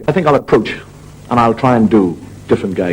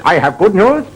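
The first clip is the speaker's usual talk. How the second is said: high comic German surgeon; German accent; 9 semitones higher than usual. Acted. German surgeon waking the patient with news, comic accent. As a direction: announce it stiffly in mock German. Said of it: "the surgeon said".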